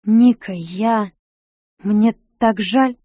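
slow, halting sorry; hesitant apology. A narrator's reading. Sid haltingly apologizing to Nika, slow and unsure. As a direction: stumble over the apology, slowly. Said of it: "неуверенно начал".

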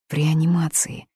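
breathy unvoiced whisper; girl shaken by news, whispering. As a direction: whisper it in dread. Inner thought, whispered.

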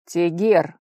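loud, stern call of the name. Acted. Fiancé arriving to call off the rival, loud and stern. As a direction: call him to order. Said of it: "сурово произнёс подлетевший Герд".

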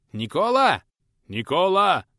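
high, loud shouts from afar; calling out. Acted. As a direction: call his name across the yard. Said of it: "окликнули трудовика".

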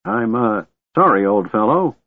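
put-on high, hesitant old man; quick apology. A narrator's reading. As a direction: stammer a hurried apology. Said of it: "the old man said quickly".

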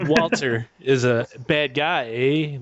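slow, bad Canadian accent with eh; a clumsy Canadian accent, drawn out. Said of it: "we'll just speak in Canadian accents, like the worst".

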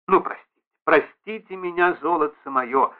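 ordinary delivery, nothing marked

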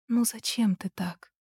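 soft, slow, gentle question; quiet. A narrator's reading. Mother gently asking her son, quietly. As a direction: ask it under your breath. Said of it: "тихо спросила она".

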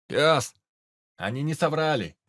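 loud, high, excited call; excited shout. Acted. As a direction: burst out with the news. Raider excitedly shows captured blasters.

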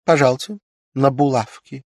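high, loud, playful demand; a wife flirtily asking her husband for pin money; coquettish. A narrator's reading. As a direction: tease him for the money. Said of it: "Ирина кокетливо протянула руку".

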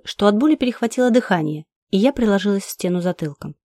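ordinary delivery, nothing marked

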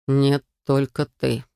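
slow, low hoarse refusal. A narrator's reading. Drugged lord refuses entry, slow and hoarse. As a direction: refuse heavily and slowly.

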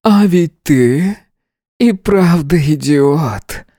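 the masked commander chides him, firm yet gentle; commanding yet gentle. A narrator's reading. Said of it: "властно и нежно".

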